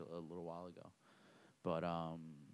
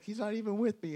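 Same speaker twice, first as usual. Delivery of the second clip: mock confused denial; 13 semitones higher, 5 dB louder than usual. Opponent denying the fake teammate.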